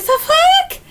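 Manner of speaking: high, sharp mock disbelief; startled disbelief. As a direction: yelp it like you can't believe your eyes. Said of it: "they're just like".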